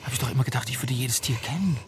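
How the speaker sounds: awed whisper. Acted. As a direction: whisper it in disbelief. Father whispering in wonder.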